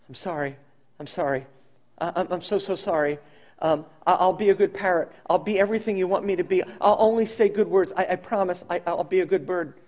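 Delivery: a hint of a cowed, apologetic bird; mild mock groveling, begging forgiveness; groveling parrot. Thawed parrot to its owner, mildly contrite and pleading. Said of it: "with a very different attitude".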